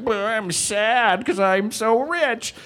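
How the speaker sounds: high, slow, whiny pop-star mope; mock the rich singer's self-pity, drawn out; mopey rich-kid whine, mocking; mopey rapper. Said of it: "just how he's so mopey".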